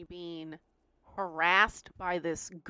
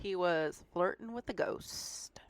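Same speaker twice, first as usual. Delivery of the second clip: whispered, unvoiced, like a ghost story; spooky whisper; 7 dB quieter than usual. Teasing friend whispers the ghost twist, spooky hush. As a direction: hush it like a campfire tale.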